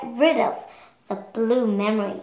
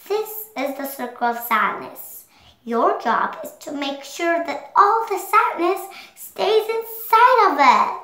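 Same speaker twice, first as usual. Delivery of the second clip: bossy instruction; 4 semitones higher than usual. Acted. Joy instructs Sadness firmly.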